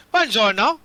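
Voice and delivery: put-on Italian accent. Drow answers his door to the players, Italian accent. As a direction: play an obliging host with a put-on Italian accent. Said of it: "I'm gonna give him Italian".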